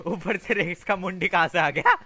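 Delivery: startled outburst. Real, not acted. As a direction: blurt it out in shock. Startled by Rex head appearing. (चौंककर ऊँची आवाज़ में चिल्लाना)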